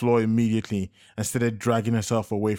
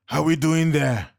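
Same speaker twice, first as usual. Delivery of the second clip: called question; 6 semitones higher, 4 dB louder, slower than usual. A narrator's reading. Shouting to Joseph under fire.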